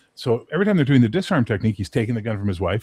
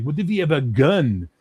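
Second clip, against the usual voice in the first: put-on higher French-accented question; French kid accent; 4 semitones higher than usual. French kid to kung fu teacher, imitated French accent. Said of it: "this one fucking French kid's like".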